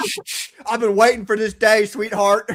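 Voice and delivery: lightly voiced eager husband; hushing, then mock-relishing reply to a wife; imagined husband. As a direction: play a husband who has been waiting for this. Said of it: "your husband be like".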